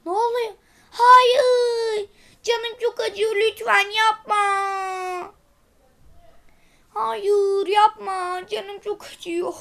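a hammed-up sob of pain; playful fake wailing robot; mock crying in pain. Robot beaten, cries in pain.

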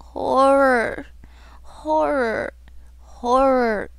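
long, falling wail of horror; moaned cry. A narrator's reading. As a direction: echo it as a plaintive moan. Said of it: "now thrice moaned the cry".

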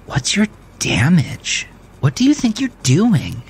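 high, sharp angry questions; indignant woman. A narrator's reading. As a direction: demand an answer, outraged. Woman angrily confronts him.

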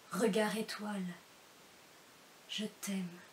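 measured poetry reading with pauses after each image; love poem recitation. Acted. Reader addressing a beloved petit loup, love poem recitation. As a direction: recite each endearment deliberately, letting "je t'aime" drop.

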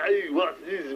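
lightly put-on Austrian strongman; Arnold Schwarzenegger. Trying a double impression for a friend, rough strongman voice. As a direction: do a rough Austrian action star. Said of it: "Schwarzenegger doing an impression of Stallone".

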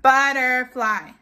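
"Butterfly" lightly parted, butter, fly; split into syllables. Shown as a demonstration. Teacher feels syllables with children, "Butterfly" parted. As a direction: say "Butterfly" evenly, with its parts set apart. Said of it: "syllables in butterfly".

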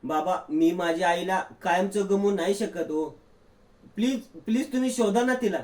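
pleading with a touch of tears; mild mock crying. Daughter pleading with father, lightly tearful. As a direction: beg her father, half-crying. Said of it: "Tanvi रडत रडत बोलते".

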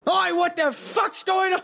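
high, loud startled yell; startled gruff shout. Acted. Archie woken by footsteps, loud startled yell. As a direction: jolt awake and bark at the noise. Character wakes, hears footsteps.

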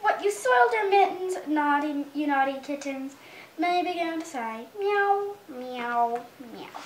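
put-on lively storybook reading to a toddler; mother reading a picture book to her little son; reading to children. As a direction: read it out like bedtime story time.

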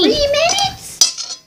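slow, high disbelieving whine; incredulous. Real, not acted. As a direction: stretch it out in disbelief. Disputing three minutes.

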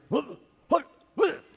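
imitating dad's short, high huffs; odd startled noises. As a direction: mimic dad's strange little puffing noises. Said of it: "He made these noises I'd never heard before".

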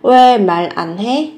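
slow, each syllable spelled out; drawn out for learners to copy. Shown as a demonstration. Teacher slowing the phrase down for students, slow and separated. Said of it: "Các bạn có từ an là cái từ phủ định".

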